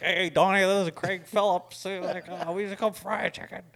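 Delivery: high, loud mocking boss voice on the phone; imitating angry boss. Client on the phone ratting to Don, mock loud boss. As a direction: ham up the furious client.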